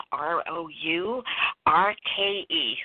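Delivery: letter by letter, slowly; spelling it out. Real, not acted. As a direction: spell out each letter clearly. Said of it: "And I'll spell it for you".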